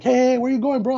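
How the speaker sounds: high, mock-urgent call; hammed-up host calling after him; calling him back. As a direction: stop him before he leaves. Hosts stopping him.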